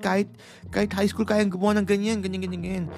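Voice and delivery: scoffing officer. Retold or imitated. Mimicking the immigration officer scoffing at her certificates. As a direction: scoff at the papers like a smug officer.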